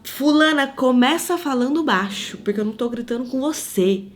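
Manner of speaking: snapping back at someone who yelled first; firm mock rebuke to a shouting woman; retold angry retort. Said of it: "tô dizendo o que a minha carne queria dizer".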